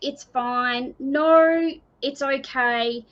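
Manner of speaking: insistent mock denial, stretched "no"; imitated denial. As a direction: wave the worry away with a rising, drawn-out "no". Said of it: "You want to go".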